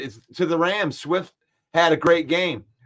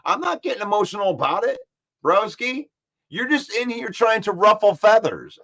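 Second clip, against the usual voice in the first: defensive pushback; 4 semitones higher than usual. Real, not acted. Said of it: "like you".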